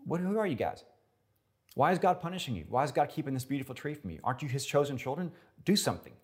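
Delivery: high, loud mocking devil voice; taunting serpent. Serpent taunting Adam and Eve, high and mocking. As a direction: needle them like the tempter. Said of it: "he said".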